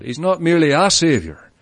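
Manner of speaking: "a" picked out as a full, separate word; stress on A. Shown as a demonstration. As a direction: lean on "a" to contrast it with the one and only. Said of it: "The emphasis could be placed as well".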